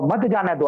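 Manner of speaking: "मत जाने दो" run together as one phrase; grouped after pause. Shown as a demonstration. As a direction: join "मत" onto "जाने दो", falling. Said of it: "अल्प विराम दे दिया". ("मत जाने दो" एक साथ)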